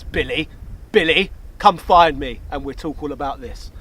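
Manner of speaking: low, menacing villain voice. Pretend. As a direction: play the scheming villain. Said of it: "talk to you like a villain".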